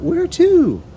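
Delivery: put-on high, loud shocked girl; crying out. A narrator's reading. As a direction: demand an answer in alarm. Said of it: "Matilda cried out".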